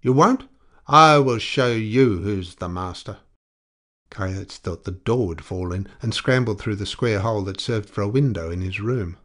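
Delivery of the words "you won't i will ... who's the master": loud, high, furious threat; enraged shouting, pitched way up; howling. A narrator's reading. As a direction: howl threats through a door, counting him down.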